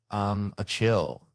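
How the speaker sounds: Robert De Niro impression. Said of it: "This was my Robert De Niro".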